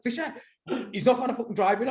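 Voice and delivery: high-pitched, stressed appeal; retold stressing. Telling Fisher the driver won't go, stressed. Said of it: "I'm, like, stressing like mad".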